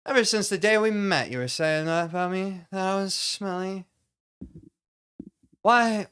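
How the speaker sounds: high-pitched, hammed-up hurt indignation; bad actor monologue. Shown as a demonstration. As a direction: overact being wounded by a friend. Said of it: "how would a bad actor do this?".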